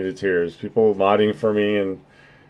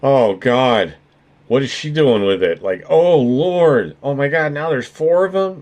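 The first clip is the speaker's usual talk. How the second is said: mock freaked-out listener; 3 semitones higher than usual. Streamer imagines his mod spooked by the screen, hammed-up panic. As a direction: climb into exaggerated panic, stretching oh Lord. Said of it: "just be like".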